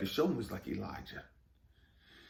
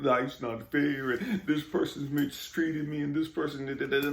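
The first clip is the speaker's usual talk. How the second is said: mock whining; 3 semitones higher than usual. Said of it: "crying back to me talking about".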